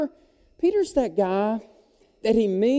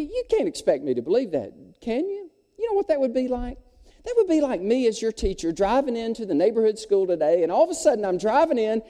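mocking teacher; 5 semitones higher than usual. Teacher scolds Johnny with counter tale.

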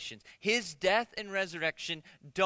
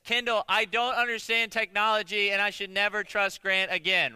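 mock dictated confession; 4 dB louder than usual. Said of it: "You need to tell it this".

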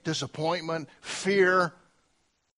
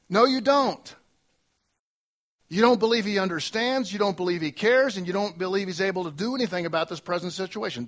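preaching at full force; 3 dB louder than usual. Real, not acted. Preacher rebuking the congregation.

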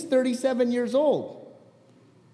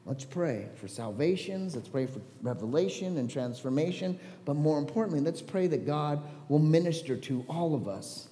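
prayer; 2 semitones lower than usual. Acted. Leads a closing prayer.

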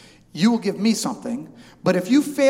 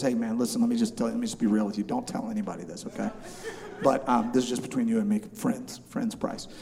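lower, softer, hushed seller's aside; confidential hush; 6 semitones lower, 6 dB quieter than usual. Retold or imitated. Market seller pulling the buyer aside, mock confidential hush. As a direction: draw him close and share a secret. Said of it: "He pulls me aside, and now we're friendly".

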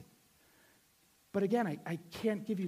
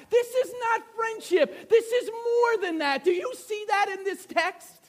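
high-pitched, insistent exclamation; urgent plea to the congregation, pitched high; impassioned preaching; 12 semitones higher, 9 dB louder, slower than usual. Real, not acted. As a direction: press the point home, voice pushed way up. Preacher hammering his point.

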